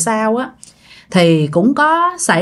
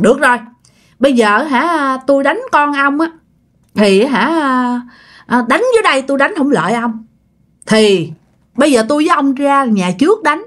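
mildly vexed, higher-pitched challenge; acted irritation, calling the spirit out to fight; angry grandfather; 5 semitones higher than usual. Grandfather challenges the spirit to fight out front, mildly angry. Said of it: "Ông nội mới tức quá".

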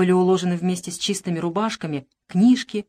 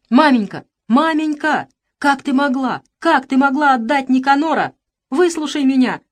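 high, loud tearful cries; desperate pleading; 6 semitones higher, 6 dB louder than usual. Acted. Boy pleads with his mother for Nikanor. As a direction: beg her at the top of your voice.

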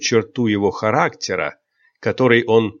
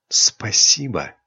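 slow, sincere thanks; understated, heartfelt gratitude; slower than usual. A narrator's reading. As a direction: say it slowly and mean it. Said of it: "искренне ответила Айрин".

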